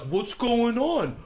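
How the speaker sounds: high, slow, bewildered "what's going on"; mock baffled whine; confused Shawn Michaels. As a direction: drawl it out high like a lost, baffled wrestler. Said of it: "Shawn Michaels is like".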